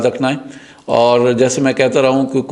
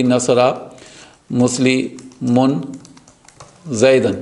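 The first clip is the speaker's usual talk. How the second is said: slow demo; much slower than usual. Shown as a demonstration. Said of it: "slow demo".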